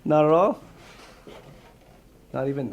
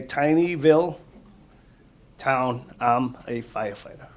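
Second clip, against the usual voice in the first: clear, lively storybook read-aloud, louder; reading to children; 2 semitones higher, 5 dB louder than usual. Acted. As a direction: read it out to the kids with energy. Firefighter reads picture book aloud.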